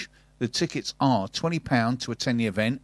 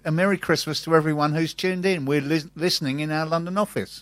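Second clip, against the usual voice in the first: higher, hammed-up Scottish accent; 5 semitones higher than usual. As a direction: read the tweet in a bad Scottish accent. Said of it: "I just told you".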